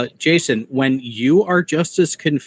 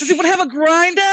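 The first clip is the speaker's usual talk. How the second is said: high, fast hammed-up Boston accent; joking Boston accent asking about a grinder; mock Boston accent; 13 semitones higher, 3 dB louder, much faster than usual. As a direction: toss it off in a silly Boston voice. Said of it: "Was he from Boston?".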